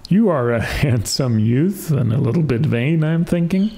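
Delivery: chuckles through the line, rising high at the end; a teasing barber laughing at the boy. Acted. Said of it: "laughed the barber".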